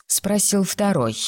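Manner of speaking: ordinary delivery, nothing marked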